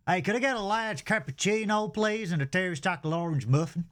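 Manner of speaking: put-on chirpy American accent at the counter. Ordering at the Costa counter in an American accent. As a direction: order like a cheerful American tourist. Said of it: "apologise for my moronic accent".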